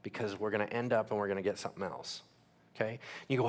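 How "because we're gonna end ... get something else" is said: a softly hushed, half-whispered warning from the Lord; gentle whisper. Retold or imitated. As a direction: lean in and say it quietly, as a kind correction. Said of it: "he's probably gonna whisper to you".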